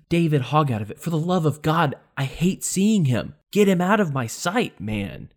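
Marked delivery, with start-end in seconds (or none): none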